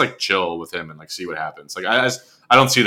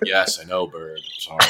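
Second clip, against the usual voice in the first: low, soft guilty admission; hushed, dropped-pitch contrition; sheepish apology; 7 semitones lower, 10 dB quieter than usual. Retold or imitated. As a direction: mumble a mock-guilty apology, trailing away. Acts out guilty reply to bird.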